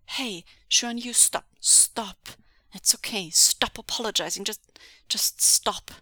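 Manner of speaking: insistent, forceful plea; worried, pressing command; urgent demand. Acted. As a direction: cut off the apologies firmly. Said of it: "Wei Wuxian demanded".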